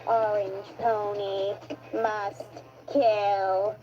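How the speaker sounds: menacing robot voice, slow; cold mechanical kill command; old rusty robot. Acted. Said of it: "an old robot that helped me".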